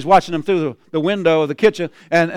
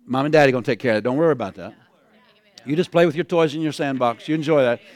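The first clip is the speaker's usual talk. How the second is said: comforting parent; 4 semitones lower, 3 dB quieter, faster than usual. Retold or imitated.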